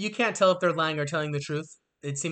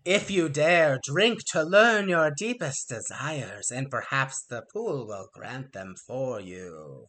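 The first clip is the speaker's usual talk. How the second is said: horror host; 3 semitones lower, slower than usual. Acted. Harpies offer the pool.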